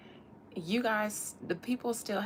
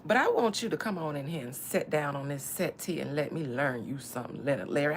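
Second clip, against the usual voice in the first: ancestral voice; 4 semitones lower than usual. Pretend. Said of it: "I get an ancestral voice with you".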